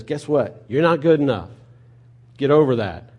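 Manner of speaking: loud, firm, no-nonsense declaration; God telling the worrier to get over it, loud and blunt. Acted. Preacher voices God telling believers they fall short, loud and firm.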